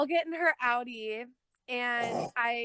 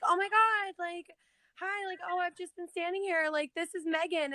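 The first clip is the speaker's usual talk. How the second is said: imitating Lexi; 8 semitones higher than usual. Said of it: "And Lexi's like".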